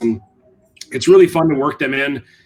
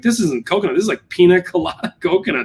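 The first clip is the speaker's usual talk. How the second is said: higher-pitched mock disbelief; retold amazement; 4 semitones higher than usual. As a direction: voice customers marveling at a surprising taste, laughing a little. Retold amazed reaction to coconut flavor.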